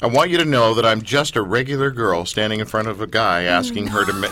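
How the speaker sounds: reading a statement aloud. Acted. Reads a prepared statement aloud.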